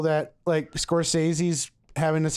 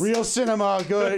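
lightly mimicked director, pitched up; a hint of an approving director, higher; Martin Scorsese; 5 semitones higher than usual. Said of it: "and Scorsese's like".

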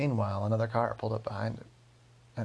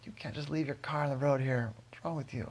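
higher-pitched telling-off, barely raised in volume; mock angry yell; 4 semitones higher than usual. Driver yelling at Bill across the street, mock yell. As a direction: mildly imitate a man yelling. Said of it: "started yelling at Bill".

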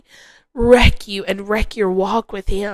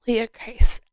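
sweet whisper. Retold or imitated. God tenderly whispering her name in prayer. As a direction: whisper it gently, like a loving father. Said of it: "I heard him so sweetly say".

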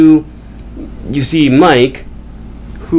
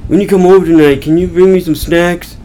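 lightly voiced stoner, a bit higher; stoned friend; 5 semitones higher than usual. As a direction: ask like a mildly stoned buddy. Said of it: "Mike's all stoned. He's like".

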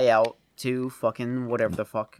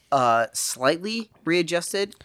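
talking through hiccups; suppressing hiccups between words; slower than usual. Real, not acted. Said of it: "I'm sorry, I have the hiccups".

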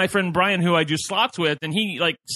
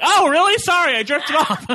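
mock startled apology; 10 semitones higher, 5 dB louder than usual. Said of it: "She's like".

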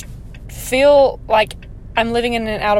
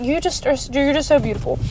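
gushing, a bit higher; gushing compliment; 3 semitones higher than usual. Shown as a demonstration. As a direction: blurt it out sweetly, gushing. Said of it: "I just kinda said it like that".

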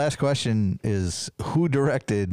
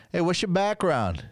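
higher-pitched imitation of a street flirt; douchebag pickup; 8 semitones higher than usual. Guys at a red light to his wife, mock pickup. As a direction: call it out like a nineties New York douchebag. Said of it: "they turned to my wife and they're like".

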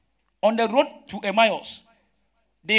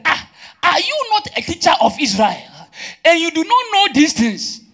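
high, raised-voice challenge; incredulous rebuke; 9 semitones higher, 6 dB louder than usual. Acted. Preacher voices Jesus to Nicodemus, incredulous rebuke. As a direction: question them as if astonished at their ignorance.

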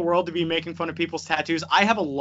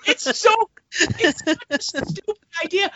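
higher, louder exasperated rant; angry rant; 8 semitones higher, 3 dB louder than usual. Real, not acted. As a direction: vent hard at a dumb idea. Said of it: "You're so mad about this".

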